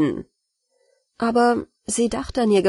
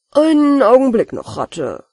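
higher, louder call to stop; 4 semitones higher, 5 dB louder than usual. Acted. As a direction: call the rat back before it leaves. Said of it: "rief der Hausherr".

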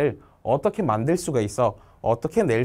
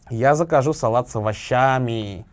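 овощами stressed on ща; slow reading, stretching ща in овощами; marked stress; much slower than usual. Shown as a demonstration. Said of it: "항상 강세 찍으라고 했죠".

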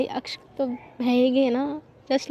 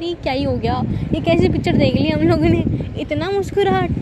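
excited amazement; 4 semitones higher, 4 dB louder than usual. Retold or imitated. Everyone amazed at Shubh smiling.

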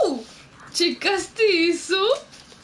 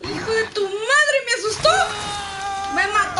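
frightened outburst; 6 semitones higher, faster than usual. Real, not acted. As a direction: blurt it out, startled and upset. Killed by monster in game.

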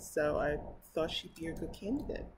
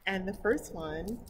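usual speaking voice

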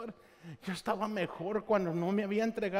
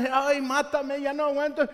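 a mock wail, louder and higher; mock shouting; 5 semitones higher, 4 dB louder than usual. Jonah in the heat, crying out to die in a mock wail. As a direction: cry out "Ay, mátame" like a dramatic complainer. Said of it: "estaba allí gritando".

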